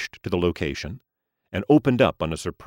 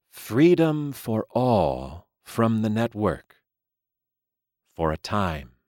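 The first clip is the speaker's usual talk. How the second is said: solemn gentleman voice; 4 semitones higher, slower than usual. Acted. Mister Lee reveals.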